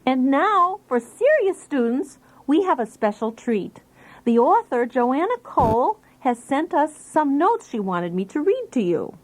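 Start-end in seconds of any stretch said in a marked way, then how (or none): 0.0-7.4 upbeat show-host announcement; a touch of game-show presenter; announcer intro. Acted. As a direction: present the special treat like a host. Announcer introduces author notes.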